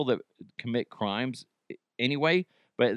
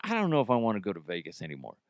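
imitating a spooked co-host; 5 semitones lower, 4 dB quieter, much faster than usual. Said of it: "You're like".

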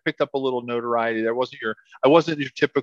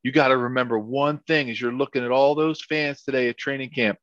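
put-on North Carolina accent; 2 semitones higher than usual. Small coach warning his big linemen, hint of a North Carolina accent. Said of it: "I'll try to do my best, you know, North Carolina accent".

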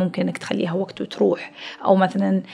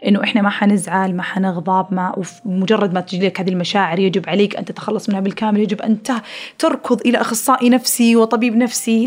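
ordinary talk

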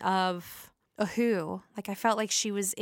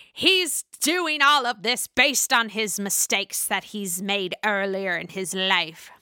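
slow, overly dramatic mock Margaret; slower than usual. Margaret accusing Bill over his past, slow and hammed-up dramatic. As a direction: ham up the gravity. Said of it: "That does not sound anything like Margaret, but I wanted to make it dramatic".

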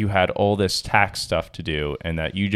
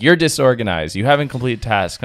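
louder, higher mock scolding; mocking partner's nagging; 4 semitones higher, 4 dB louder than usual. Husband mimics wife scolding him, in louder mock nagging. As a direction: throw her nagging back at her. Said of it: "And you're like".

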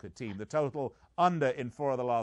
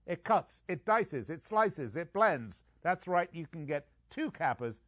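higher, louder gadget-ad hype; infomercial pitchman; 6 semitones higher, 4 dB louder, slower than usual. Acted. Host parodies a kitchen-gadget ad for betting picks, hyped pitchman. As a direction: rattle off the features like a TV salesman.

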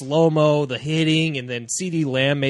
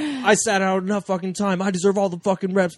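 higher-pitched mock indignant protest; pissed off quarterback; 4 semitones higher than usual. Quarterback complaining about losing reps, retold anger. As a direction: imitate an angry player demanding his reps. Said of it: "Oh, he was pissed".

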